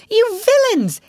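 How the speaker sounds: high furious yell at the motorists; shouting. A narrator's reading. Rat yelling after the reckless motor car, furious. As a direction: bellow it, fists shaking. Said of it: "he shouted".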